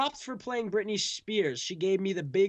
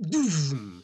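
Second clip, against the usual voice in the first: imitated heart thud; 4 semitones lower, 5 dB louder than usual. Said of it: "Made that noise and it hurt my ears".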